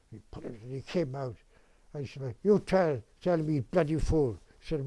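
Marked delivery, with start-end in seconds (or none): 2.4-4.4 louder mock telling-off with Italian accent; broken-English Italian accent. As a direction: imitate an indignant Italian, punchy. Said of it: "still couldn't speak English very well".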